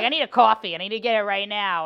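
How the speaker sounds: imitating an upset mother's Queens accent; upset Queens mom. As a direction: demand it in a mock New York accent. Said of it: "when you knew she was upset".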